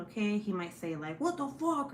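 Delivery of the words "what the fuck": high-pitched pretend outburst; mock husband yelling. Wife warning viewers of husband's outbursts, mock yell. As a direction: imitate an irate husband without really shouting. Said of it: "my husband yelling in the background".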